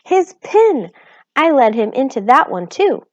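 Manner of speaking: Homily's anguished outcry; distraught. A narrator's reading. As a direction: wail it in dismay.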